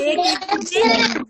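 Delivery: एक एक दिन slow, high and loud; stress on एक एक दिन. Shown as a demonstration. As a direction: hit एक एक दिन slowly. Teacher stressing one day. (एक एक दिन पर ज़ोर, धीरे और ऊँचा)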